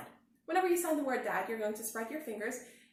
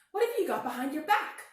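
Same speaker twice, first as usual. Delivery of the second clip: Douglas asking; 7 semitones higher, 7 dB louder than usual. A narrator's reading. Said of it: "asked Douglas".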